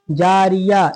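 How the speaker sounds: जारिया closed on a breath of h instead of -tun; pausal h ending. Shown as a demonstration. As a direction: stop on जारिया, dropping the tun. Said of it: "जारियतुन से क्या हो जाएगा?". (जारिया, ता को हा से बदल के)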